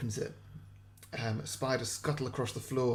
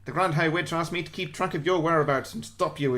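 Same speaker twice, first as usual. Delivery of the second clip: nasal witch; 3 semitones higher, 7 dB louder than usual. Acted. To the captured teacher, a nasal gloating witch. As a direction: menace her like a gloating witch. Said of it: "They're all just nasally".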